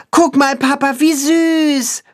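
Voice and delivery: put-on a small boy thrilled by the calf; little boy calling. A narrator's reading. Boy calls to his dad about the calf, high delighted child. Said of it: "ruft der Junge seinem Vater zu".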